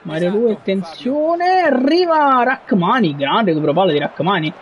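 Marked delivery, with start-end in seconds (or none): 0.5-3.2 alarmed call. Real, not acted. Alarm at opponent attack.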